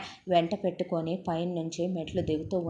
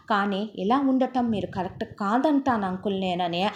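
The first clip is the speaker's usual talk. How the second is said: lightly voiced hurt teenage boy; 3 semitones higher, 3 dB louder than usual. Teenage boy confronting his stepfather uncle, hurt and insistent. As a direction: speak as the wronged son standing up for his mother.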